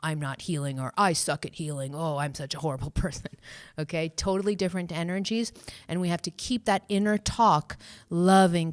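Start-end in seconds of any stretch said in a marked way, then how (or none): 0.0-3.3 dropping softer and lower, a mopey put-down; mock self-criticism. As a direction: mumble it like a gloomy inner critic, half laughing. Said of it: "totally different energy than saying".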